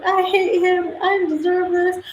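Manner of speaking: put-on high, sing-song whiny girl voice; hammed-up high wail of a dumped girlfriend; mock heartbroken girlfriend. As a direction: imitate a crying girl venting to her friends. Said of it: "She's like".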